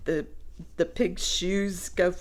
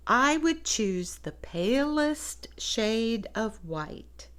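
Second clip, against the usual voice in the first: a hint of a pig voice, slow; lightly voiced pig; 3 semitones higher, slower than usual. Reading to children, lightly voiced pig. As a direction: read the pig's wish slowly, lightly voiced. Pig's line in picture book.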